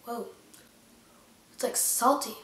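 talking with mouth full; eating while speaking; chewing chocolate. Real, not acted. Seen 2: Chocolate held at chin, mouth working; hands keep food at mouth throughout.

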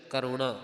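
ਕਰੁਣਾ with a retroflex ṇ; "karu-ṇaa", not a dental n. Shown as a demonstration. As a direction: curl the tongue back for the ṇ in ਕਰੁਣਾ. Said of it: "ਨਾਣੇ ਦੇ ਨਾਲ ਕਰੁਣਾ".

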